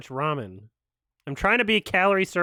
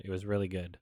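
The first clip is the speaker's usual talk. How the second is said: whisper; 8 semitones lower, 10 dB quieter, faster than usual. Real, not acted. Savouring remembered juicy chicken.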